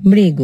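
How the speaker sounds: মৃগ said as "mrigo", final অ closed to ও; মৃগ pronounced মৃগো; closed o sound. Shown as a demonstration. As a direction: end মৃগ on an o. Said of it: "উচ্চারণ কি করব?".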